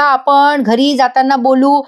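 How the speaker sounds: slow, deliberate irritated repeat; annoyed. Acted. Abhimanyu sir, irritated, repeats himself to Gauri slowly. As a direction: spell it out slowly, fed up. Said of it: "Abhimanyu sir चिडत म्हणतात".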